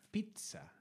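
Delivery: "pizza" softly, with a crisp Italian ts. Shown as a demonstration. Comedian shows how to say "pizza" properly, softly. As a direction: say "pizza" the Italian way, quiet and exact. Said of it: "Se dice".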